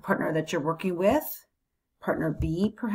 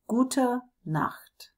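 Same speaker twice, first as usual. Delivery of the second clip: bedtime whisper; 6 semitones higher than usual. Shown as a demonstration. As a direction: whisper "Gute Nacht" like tucking someone in. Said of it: "ready to say those last, last good nights".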